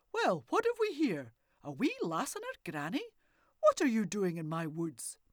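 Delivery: put-on loud, booming old man's voice; a wild old woodsman challenging strangers; gruff old hermit. Old man questioning the girl and granny in his woods, loud and gruff.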